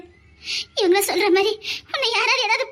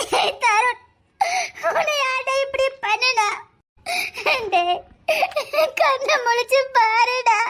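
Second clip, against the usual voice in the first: pleading tearfully; 2 semitones higher than usual. Acted. Mother pleads at son's bedside.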